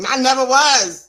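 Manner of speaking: loud, drawn-out denial; emphatic denial. Real, not acted. Host teases about rough past, emphatic denial. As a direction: stretch it out slowly and firmly, with volume.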